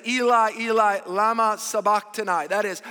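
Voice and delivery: a preacher crying out in a loud voice. Acted. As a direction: cry it out loud and slow. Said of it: "He lifted his voice".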